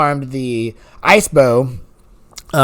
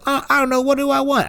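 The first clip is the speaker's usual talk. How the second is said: higher dithering; 9 semitones higher than usual. Retold or imitated. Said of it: "I'm like".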